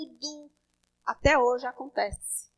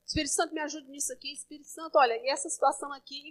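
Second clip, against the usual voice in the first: quiet inner prayer; 9 dB quieter, faster than usual. Retold or imitated.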